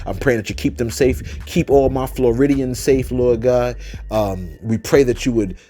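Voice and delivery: earnest spoken prayer for safety. Real, not acted. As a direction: pray over them, steady and sincere. Leads a prayer for the storm.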